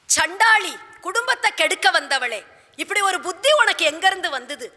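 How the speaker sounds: acted outrage of a betrayed husband; angry reproach. King curses the queen.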